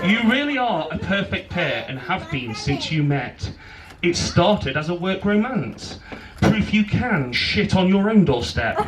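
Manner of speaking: measured rhyming wedding poem; poem recital. Real, not acted. Best man reads his poem to bride and groom, poem recital. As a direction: recite it line by line with pauses.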